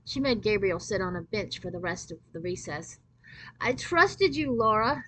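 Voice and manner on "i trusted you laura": tearful. Acted. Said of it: "with tears in her eyes".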